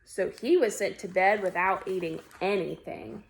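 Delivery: animated picture-book narration; story read-aloud. A narrator's reading. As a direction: read to children, leaning on key words. Reads picture book aloud to children.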